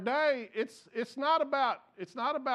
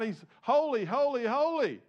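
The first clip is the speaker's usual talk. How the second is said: angels crying out; 5 semitones higher than usual. Retold or imitated. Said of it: "These angels are crying out".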